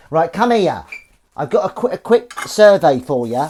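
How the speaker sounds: high, loud sing-song voice for the cat. Pretend. Talking to his kitten Willow in a high, loud cat voice. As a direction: coo at the kitten like a game-show host. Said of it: "That's the cat voice for you".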